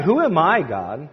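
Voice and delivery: high questioning protest, dropping at the end; acted protest. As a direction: question God in mild disbelief. Repeating Moses's objection.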